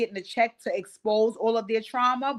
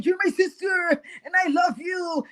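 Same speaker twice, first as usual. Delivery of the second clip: 1 mock crying plea; 7 semitones higher than usual.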